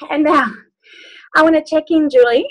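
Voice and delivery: puffed after jumping around; out of breath. Real, not acted. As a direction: talk while catching your breath. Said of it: "Sorry, a bit puffed".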